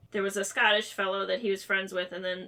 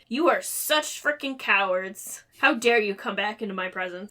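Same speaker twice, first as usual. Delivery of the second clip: comic scolding; 4 dB louder than usual. Retold or imitated. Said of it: "Rose very comically is like".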